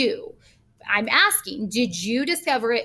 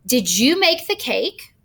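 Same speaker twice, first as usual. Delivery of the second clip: slow example read. Shown as a demonstration. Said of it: "Which intensive pronoun will best complete".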